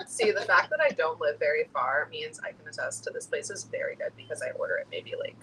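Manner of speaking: talking while chewing; mouth full. Real, not acted. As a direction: speak through a mouthful of food. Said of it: "I'll answer them with my mouth full".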